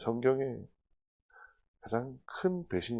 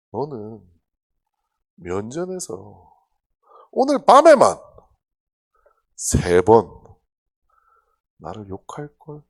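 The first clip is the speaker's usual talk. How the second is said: grinning Jesus; 8 dB louder than usual. Retold or imitated. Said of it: "씩 웃으시면서".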